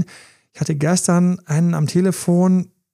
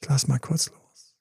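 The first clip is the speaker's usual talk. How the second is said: calm letting go; 3 semitones lower, 5 dB quieter than usual. Shown as a demonstration. Coaching listeners to let go, hushed and calm. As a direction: let the words sink away softly as you release. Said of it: "sie müssen einfach nur sagen".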